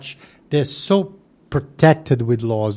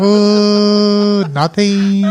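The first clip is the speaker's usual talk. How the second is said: startled and meek; 8 semitones higher, 8 dB louder, much slower than usual. Retold or imitated. His scared reply to her.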